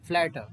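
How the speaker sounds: फ्लैटर ending on 'ta', silent final r; British pronunciation. Shown as a demonstration. Teacher models the British word for students, फ्लैटर without final r. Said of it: "टा पे रुक जाना, आर मत बोलना British में".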